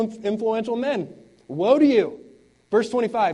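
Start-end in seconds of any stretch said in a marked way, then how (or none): 1.5-2.2 much louder and higher, hurled out; loud denouncing woe. Acted. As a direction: thunder woe at the powerful men. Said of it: "this is how Jesus spoke".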